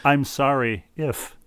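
whispered, slow non-apology; fake apology. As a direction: breathe a fake sorry. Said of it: "Yeah, right".

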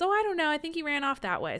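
mock-innocent woman covering for someone; covering for him. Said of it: "she goes".

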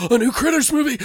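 gasp, then high thrilled cry; mock the hyped fans; excited fan gasp. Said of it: "everybody was like".

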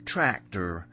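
put-on broad English country accent on one drawn-out word; exaggerated English tractor-country accent; mock rural English accent. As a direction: imitate a local farming accent from England. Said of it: "it's an accent. It's a real, like".

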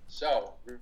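stuffy nasal voice from a cold. Real, not acted. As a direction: talk through a blocked, nasal nose. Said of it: "excuse my nasally, uh, voice".

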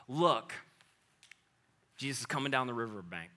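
soft, low reverent reading; hushed scripture. Acted. Preacher reading scripture softly.

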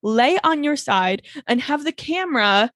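slow, drawn-out mock indignation; hammed-up scandalised telling-off; mock outrage. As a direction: scold slowly, word by word, in play. Mock scolding over music video.

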